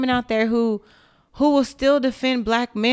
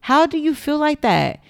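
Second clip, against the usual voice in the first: higher, exasperated disbelief; higher-pitched incredulous questioning; incredulous retort; 8 semitones higher than usual. Retold or imitated. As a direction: plead in stunned disbelief. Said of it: "I'm like".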